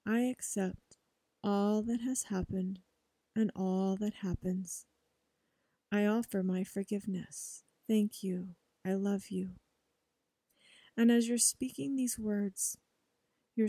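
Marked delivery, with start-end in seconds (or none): 0.1-9.5 quiet, measured mantra recitation; soft affirmation. Shown as a demonstration. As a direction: say each phrase softly like a prayer. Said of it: "Say it with me".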